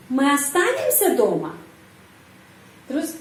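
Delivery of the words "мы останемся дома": останемся lifted, дома falling after it; stress in main clause. Shown as a demonstration. Teacher showing question intonation in the main clause, stress on останемся. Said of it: "di sini penekanan".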